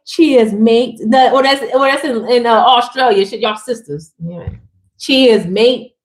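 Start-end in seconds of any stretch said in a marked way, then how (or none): 0.1-1.0 a light mock British "cheers, mate" with a rising end; British accent. Toasting her viewers with a lightly faked British "cheers, mate". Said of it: "What they say in, in, in the U K". 5.0-5.9 a light mock British "cheers, mate" with a rising end; British accent. Toasting her viewers with a lightly faked British "cheers, mate". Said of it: "What they say in, in, in the U K".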